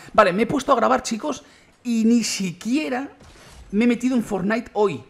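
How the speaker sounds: high, loud, thrilled announcement; excitement spilling over, slowing on the hype; excited. Real, not acted. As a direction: gush about the news, almost squealing. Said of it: "estoy emocionado".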